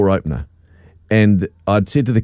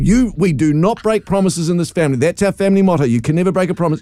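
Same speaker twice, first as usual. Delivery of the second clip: stern telling off; 6 semitones higher than usual. Retold or imitated. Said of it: "the biggest bollocking the poor child's had".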